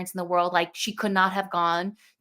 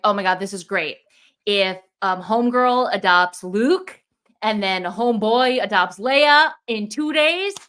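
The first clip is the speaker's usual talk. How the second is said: rising, slowed, louder with eager hope; excited hoping; 2 semitones higher, 4 dB louder than usual. Retold or imitated. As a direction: lift it up, savour each word. Excited quote of her own hopes.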